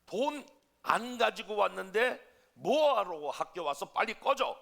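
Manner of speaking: teacher's harsh, loud shout, acted out; retold angry shout. Teacher chases off a pupil who brought no money, angry shout. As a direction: yell it like a furious teacher in a retelling. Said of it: "이렇게 소리쳤는데".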